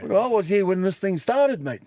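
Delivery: high, laughing indignation; indignant. Retold or imitated. Still answering the lady, laughing indignation. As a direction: push back, half amused.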